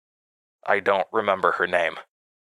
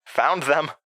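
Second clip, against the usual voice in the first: higher, pleased little quip; 7 semitones higher than usual. Acted. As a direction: toss it off with a grin. Narrator triumphant quip.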